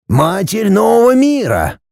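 a hint of a mystic old man explaining; old Kofler's voice. Kofler proclaims.

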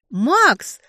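high, loud shriek of Макс in fear; frightened shriek. A narrator's reading. Falling from the sky, she shrieks his name in fright. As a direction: squeal his name as you fall. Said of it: "взвизгнула я от страха".

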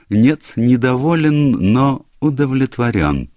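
lightly voiced pompous detective; a hint of a self-satisfied sleuth; Poirot voice. A narrator's reading.

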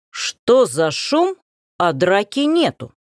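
put-on imperious old lady, slow and weighty; a domineering matron demanding answers, drawn out; commanding general's wife. The general's wife enters and demands what the noise is, imperiously. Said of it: "властный голос генеральши".

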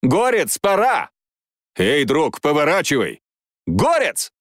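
high, alarmed calls; frightened, urgent pleading; sudden fear. Acted. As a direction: call out to a friend in rising fear. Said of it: "в их голосах неожиданно зазвучал страх".

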